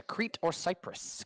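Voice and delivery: slow, deliberate quiz read; slow and drawn out. Shown as a demonstration. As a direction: stretch each word out slowly. Quiz question read out slowly.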